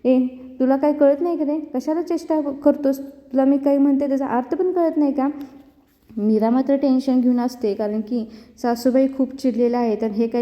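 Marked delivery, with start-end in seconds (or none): 0.0-5.3 mock angry mother-in-law, pitched up; angrier scolding. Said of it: "Nirupa जास्त चिडते".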